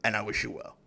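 breathy whispered farewell; whispered sign-off. Retold or imitated. Signing off the rejection email, whispered. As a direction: let it fade to a whisper.

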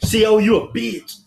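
high, drawn-out jeering yell; inmate yelling taunts. Retold or imitated. Inmate yelling insults at the guard through the door, jeering. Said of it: "He's, like, yelling at me".

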